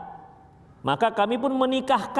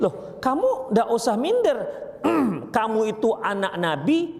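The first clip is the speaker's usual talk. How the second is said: lifted, higher voice building her up; reassuring comfort; 5 semitones higher than usual. Retold or imitated. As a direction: cheer up a hurt wife, rising to a high peak. Prophet reassures Sofiyah, rising pitch. (menghibur istri dengan nada tinggi yang meyakinkan)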